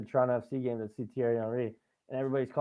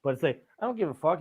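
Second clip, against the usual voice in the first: ordinary talk, nothing marked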